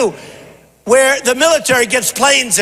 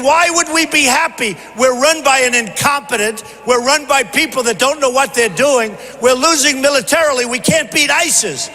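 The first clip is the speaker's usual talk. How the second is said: worked-up crowd; 3 semitones higher than usual. Retold or imitated. Candidate voices his fed-up supporters to the rally, worked-up. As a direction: voice the people's exasperation, pitched up. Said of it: "the people went crazy saying".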